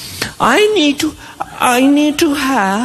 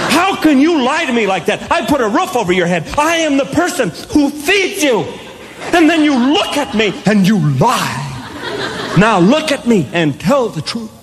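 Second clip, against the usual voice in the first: stern parent scolding. Retold or imitated. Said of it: "I went into that parent thing".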